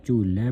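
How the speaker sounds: ਝੂਲੈ with an open "ae" ending; dulavan vowel. Shown as a demonstration. Teacher models the reading, ਝੂਲੈ with open ai. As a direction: widen the end of ਝੂਲੈ to ai. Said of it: "ਪੜ੍ਹਨਾ ਹੈ ਦਲਾਵਾਂ ਦੇ ਨਾਲ".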